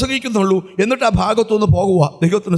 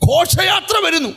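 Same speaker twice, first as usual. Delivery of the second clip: shouting the news, a touch higher; excited shout; 6 semitones higher than usual. Retold or imitated. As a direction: burst in with joyful news. Child announces procession excitedly. (ആവേശത്തോടെ വിളിച്ചുപറയൽ)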